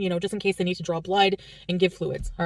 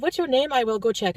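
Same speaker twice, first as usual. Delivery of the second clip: put-on French Canadian accent; 5 semitones higher than usual. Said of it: "try to imitate it".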